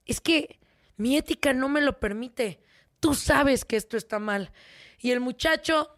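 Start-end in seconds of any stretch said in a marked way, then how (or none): 0.1-4.5 prim teacher. Retold or imitated. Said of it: "la maestra".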